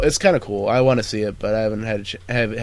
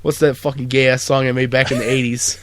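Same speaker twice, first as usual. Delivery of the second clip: Mark Wahlberg. Pretend. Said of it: "Mark Wahlberg's gonna be on".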